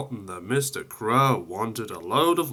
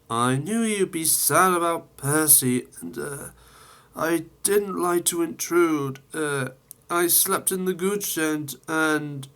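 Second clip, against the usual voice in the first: higher, hesitant fibbing voice; sheepish excuse; 6 semitones higher than usual. Acted. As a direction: fumble for an excuse. Thomas making excuses.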